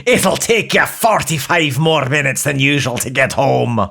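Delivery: Scottish traffic report; matter-of-fact Scottish voice; Scottish accent. Acted.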